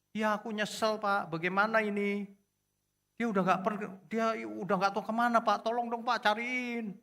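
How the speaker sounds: high, pleading mock wail; imitated crying. Regretful husband begs his pastor for help, imitated crying. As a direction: beg like a sobbing husband, pitched well up. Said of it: "Suaminya nangis-nangis".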